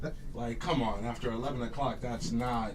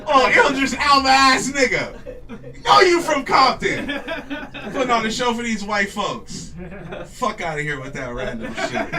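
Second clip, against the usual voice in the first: mock call-out shout; 9 semitones higher, 9 dB louder than usual. Real, not acted. Calling out fake accent.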